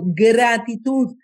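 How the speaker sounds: gratitud drawn out slowly, each syllable weighted; solemn emphasis on gratitud. Shown as a demonstration. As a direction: lay gratitud down slowly like a key word. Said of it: "acá estoy dando una clave esencial".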